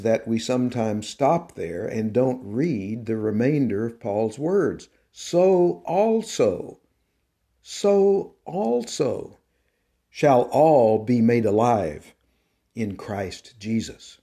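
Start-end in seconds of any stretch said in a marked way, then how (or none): 5.1-14.2 slow soaring preacher's climax; climactic proclamation. Acted. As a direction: build the verse slowly to its triumph. Preacher climaxes quoting Paul.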